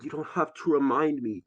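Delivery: high, loud, upset retort; exasperated outburst. Acted. Cuts off friend's lecture, upset.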